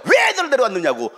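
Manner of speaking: mildly heated imitation of a telling-off; angry scolding. Disciples scolding parents for bringing children, mock anger. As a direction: challenge them in mock anger. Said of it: "막 화를 내면서".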